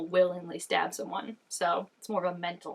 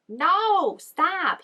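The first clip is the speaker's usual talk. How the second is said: alarmed outcry; 10 semitones higher, 6 dB louder than usual. Real, not acted. Reacting to danger on screen.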